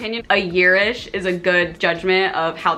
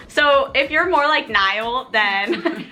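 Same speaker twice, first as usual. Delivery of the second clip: quizzing voice; 4 semitones higher, much slower than usual. Retold or imitated. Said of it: "I could just hear her being like".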